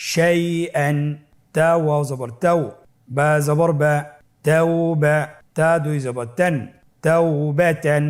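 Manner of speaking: chanted spelling, clear and firm; loud recitation drill. Shown as a demonstration. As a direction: lead the class aloud, syllable by syllable. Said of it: "আপনারা আমার সাথে বলুন". (উচ্চ আওয়াজে বানান পাঠ)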